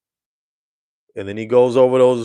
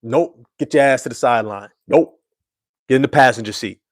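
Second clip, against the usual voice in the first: louder, emphatic refusals, nope after nope; firm no; 4 dB louder than usual. Retold or imitated. Teammates benching Cade like a driver, loud and firm. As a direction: shut it down hard. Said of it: "should have been like".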